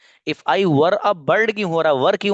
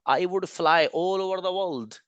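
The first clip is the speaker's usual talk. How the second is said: slow model sentence; 4 semitones higher, 4 dB quieter, much slower than usual. Shown as a demonstration. Teacher models sentence slowly.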